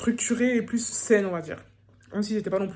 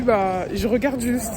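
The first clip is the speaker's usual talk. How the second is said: slow retold line; 3 dB louder, much slower than usual. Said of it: "je lui ai dit".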